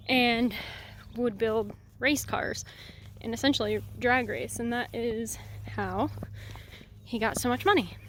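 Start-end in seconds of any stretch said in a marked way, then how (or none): 1.2-8.0 breathless from the climb; talking while catching breath. Real, not acted. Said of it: "Sorry, I'm out of breath".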